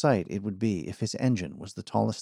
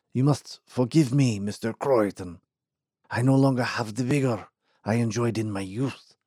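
put-on tired old man.

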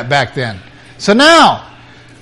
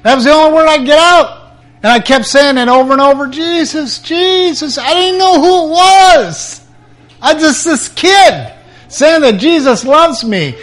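high, fast, choking on tears; pleading, voice about to break; tearful crying out; 8 semitones higher than usual. Real, not acted. Reliving the night he cried to Jesus, tearful and high.

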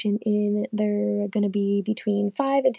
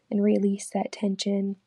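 unhurried meditation guide, long pauses between phrases; guided meditation; 10 semitones lower than usual. Real, not acted. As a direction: lead them calmly through breathing, counts evenly spaced. Leads a guided breathing meditation.

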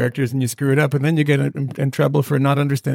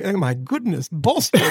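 put-on faded Boston accent; 5 semitones higher than usual. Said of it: "the fade out on the Boston accent".

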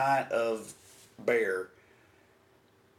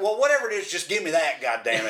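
retold exasperation; 2 semitones higher, 3 dB louder, faster than usual. Retold impatient demand to clerk.

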